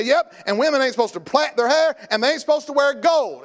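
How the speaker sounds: mocking the critics. Preacher mocking people who misquote the verse, mock lecture. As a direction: ham up the know-it-all. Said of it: "And then they say".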